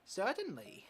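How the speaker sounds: put-on a lightly done East Asian accent for the old coach. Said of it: "I'm giving him this accent, this voice".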